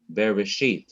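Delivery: Bereshit with the first two syllables quick and the last one held; rushed start, stressed end. Shown as a demonstration. Teacher showing students the accent, quick start and stressed final syllable. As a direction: hurry through "Bere", lean on the end of Bereshit. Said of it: "I've rushed through the first two syllables".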